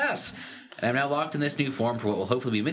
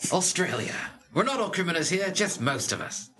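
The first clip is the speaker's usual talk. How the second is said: mock Aussie, slowing at the end; playful put-on Australian accent; 5 semitones higher than usual. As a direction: do a jokey Australian. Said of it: "in an Australian accent".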